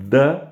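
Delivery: "the" with the tongue between the teeth; English interdental th on "the". Shown as a demonstration. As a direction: demonstrate "the" with a voiced English th. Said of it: "qui est une interdentale".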